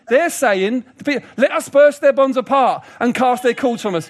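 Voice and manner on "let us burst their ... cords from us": rebellious declamation. Retold or imitated. Rebellious nations' words, declaimed.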